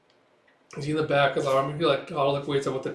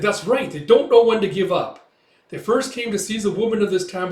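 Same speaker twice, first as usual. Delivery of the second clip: raised voice; 7 semitones higher, 7 dB louder than usual. Retold or imitated. Villager angrily recounts attack.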